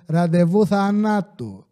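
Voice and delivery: slow, heavy mock threat; menacing threat. Tattooed cashier threatening a rude customer, slow and menacing. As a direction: lay each word down like a dare.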